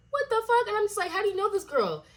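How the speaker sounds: exasperated outrage. Retold or imitated. Angry retold confrontation with boyfriend.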